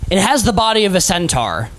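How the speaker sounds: game master narration. Acted. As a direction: draw out the monster's entrance. Game master describes the archdemon's arrival.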